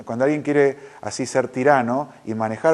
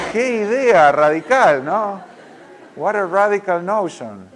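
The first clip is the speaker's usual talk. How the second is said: laughing amazement; 7 semitones higher, 6 dB louder, slower than usual. Real, not acted.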